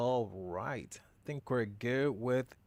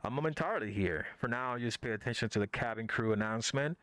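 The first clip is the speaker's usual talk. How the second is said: airline captain announcement; faster than usual. Pretend. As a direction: address the cabin like a captain on the intercom. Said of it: "it's your captain speaking".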